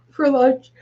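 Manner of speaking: words stretched through a yawn. Real, not acted. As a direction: say it mid-yawn. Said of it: "that's why I'm yawning".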